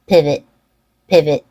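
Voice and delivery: "pivot" with a short schwa in the second syllable; "pivot" said as PIV-uht; reduced second vowel. Shown as a demonstration. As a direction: keep the end of "pivot" short, no O sound. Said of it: "be short with a reduced vowel".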